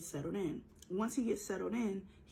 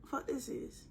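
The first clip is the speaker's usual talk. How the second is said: higher-pitched imitated shock; mock shock; 6 semitones higher, much slower than usual. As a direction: act out a startled caller, pitched up. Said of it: "he's obviously in shock".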